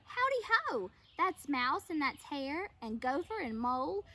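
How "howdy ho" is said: high, loud cheery greeting; cheery hello. A narrator's reading. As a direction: give a bright big hello.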